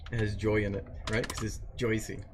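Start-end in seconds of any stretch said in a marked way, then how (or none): 1.3-2.2 Joycey said with a soft j, put on lightly; a light put-on Jersey accent; playful Jersey accent; mock Jersey accent. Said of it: "No, I'm putting on an accent".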